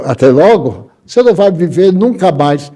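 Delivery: retold huffy retort, rising in pitch; indignant echo. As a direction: throw the goodbye back, mildly affronted. Doctor throws the goodbye back, offended.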